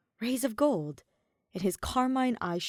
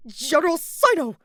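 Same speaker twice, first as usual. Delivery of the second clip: loud, high formal call; announcing call; 9 semitones higher, 10 dB louder than usual. A narrator's reading. Guard announcing General Sino, loud call. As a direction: herald the general's arrival.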